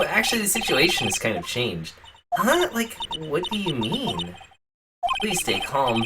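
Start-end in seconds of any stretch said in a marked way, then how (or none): 2.3-4.4 put-on high, flustered Valley Girl. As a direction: stammer it out like a ditzy girl. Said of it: "Valley Girl voice".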